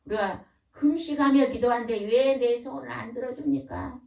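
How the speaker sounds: mildly aggrieved, imitating a complainer; resentful complaint. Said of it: "이렇게 하나님 앞에 원망한다는 거예요".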